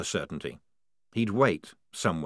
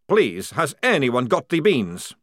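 louder, slow pleading; desperate vampire plea; 5 semitones higher, 6 dB louder, slower than usual. Acted. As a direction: beg the squad. Maledict pleading.

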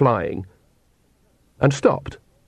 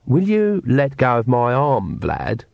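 sweetly; slower than usual. Acted. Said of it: "said Agnes sweetly".

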